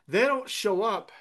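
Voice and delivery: don't hit high and loud; stress on don't. Shown as a demonstration. Pastor making his flock catch the point, don't stressed. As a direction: lean hard on don't. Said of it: "pay attention here".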